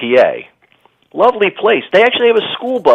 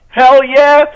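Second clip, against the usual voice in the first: enthusiastic; 10 semitones higher, 4 dB louder than usual. Retold or imitated. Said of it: "I'm like".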